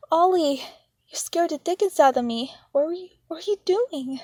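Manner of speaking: put-on loud, high startled outburst at the little boy; startled yell. Sister startled by little brother in the dark, yelling. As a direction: shout it, heart still pounding.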